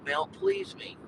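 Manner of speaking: high, playful lilt on Mount Please Me; teasing nickname. Real, not acted. Joking to viewers about the rich suburb, in a teasing lilt. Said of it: "That's right".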